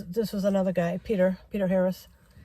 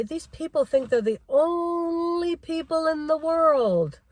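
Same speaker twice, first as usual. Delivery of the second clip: quoting dad; 5 semitones higher, slower than usual. Retold or imitated. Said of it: "My dad always used to say".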